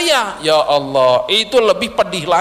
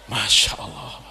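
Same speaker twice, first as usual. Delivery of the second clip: low, soft Masya Allah; awed hush; 6 dB quieter than usual. Real, not acted. Preacher marvels to the congregation, low and soft. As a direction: breathe it out in awe. Awe after God's warning.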